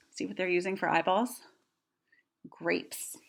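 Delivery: put-on hushed reveal to a child; whispered reveal. A narrator's reading. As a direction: let the listener in on a secret. Narrator aside, whispered reveal.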